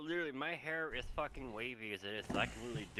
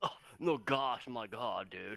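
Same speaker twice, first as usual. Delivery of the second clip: mock, put-on surfer dude voice. Retelling a reply to people assuming a surfer upbringing, in a mock surfer dude voice. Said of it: "so you must be one of the surfer valley di- guys".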